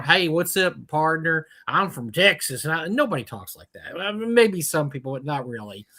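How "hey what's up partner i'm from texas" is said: exaggerated Texas twang; Texas accent. Mocking how people fake Texans, Texas accent. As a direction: play a stereotype Texan. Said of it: "you hear people going".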